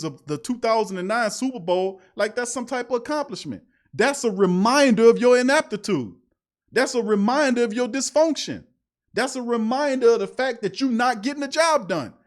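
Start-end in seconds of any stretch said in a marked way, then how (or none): 3.9-12.1 raised, heated rant; angry rant. Real, not acted. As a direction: hammer each line home, fed up. Host rants about team failure.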